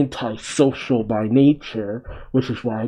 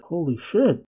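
stunned murmur; 5 semitones higher, 3 dB quieter than usual. Real, not acted. Viewer reacting to the grandpa's death, stunned quiet. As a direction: let it slip out under your breath.

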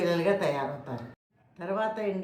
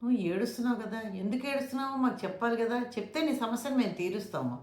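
gently asking; 3 semitones higher than usual. Shown as a demonstration. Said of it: "మెల్లిగా ఎలా అడగాలి".

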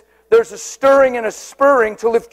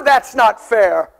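mock whine; slower than usual. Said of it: "It's never".

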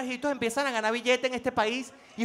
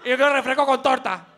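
put-on eager kid; 4 semitones lower than usual. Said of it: "uno estaba esperando".

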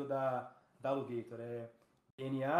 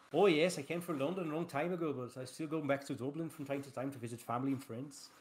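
imitating an Irish accent in English; light Irish lilt on the English reply; playful Irish accent impression. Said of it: "mas de imitar sotaques".

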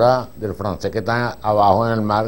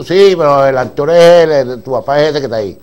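insistent director; 4 semitones higher, 8 dB louder than usual. Retold or imitated.

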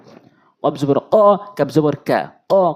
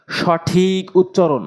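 slow announcement; 3 semitones higher, much slower than usual. Shown as a demonstration. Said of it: "announces correct pronunciation".

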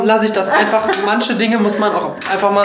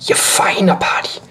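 whispering; slower than usual. Real, not acted. Whispered again, slower.

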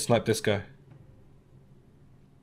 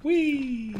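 excited. Real, not acted. Jumping down playfully.

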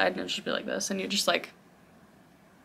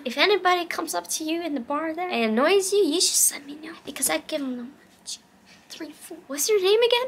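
put-on drunk new best friend; 8 semitones higher than usual. Plays drunk bathroom best friend.

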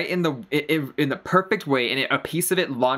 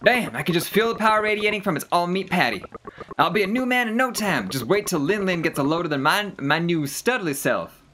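high, gushing cartoon hero; excited boastful game character; 6 semitones higher than usual. Dwayne sees the legendary hamburger, excited boasting. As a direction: marvel and brag in a put-on voice.

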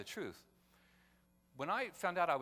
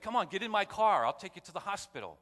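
loud, higher urgent offer of help; urgent call; 7 semitones higher, 9 dB louder than usual. Retold or imitated. Reporter urging the man into his car, loud and urgent. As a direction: shout it out to get them moving. Reporter rushes to bleeding girl.

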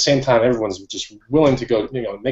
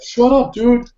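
mock annoyed brush-off; 12 semitones higher, 3 dB louder, much slower than usual. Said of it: "he was just like".

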